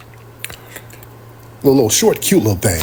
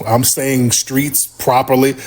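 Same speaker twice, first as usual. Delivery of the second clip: proper careful voice; slower than usual. Retold or imitated. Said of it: "I'm being super articulate".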